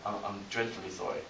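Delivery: softly understated, timid apology; polite British apology. Acted. British walker trying to pass someone, politely apologetic. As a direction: apologize meekly, keeping it quiet. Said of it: "you might have noticed I'm British".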